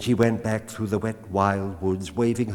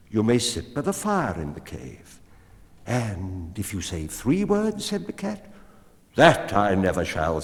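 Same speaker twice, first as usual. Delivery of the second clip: higher, louder, sure woman's voice; the woman, confident; 4 semitones higher, 6 dB louder than usual. A narrator's reading. Woman sets her terms for the cat, high and sure. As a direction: lay out terms she thinks she'll never meet.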